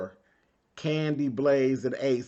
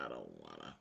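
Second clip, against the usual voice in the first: mock child whine; 22 dB quieter than usual. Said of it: "He said".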